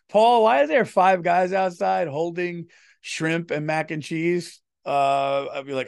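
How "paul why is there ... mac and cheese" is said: louder, slower mock yell from the wife; wife scolding husband about guests, mild mock yell; imitated angry wife. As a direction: play the exasperated wife, half-hearted. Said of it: "my wife will yell at me going".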